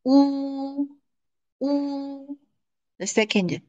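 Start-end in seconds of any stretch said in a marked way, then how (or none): 0.0-2.4 乌 held high and level; high level first tone on 乌. Shown as a demonstration. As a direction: Mandarin 乌, first tone. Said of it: "The first one is read".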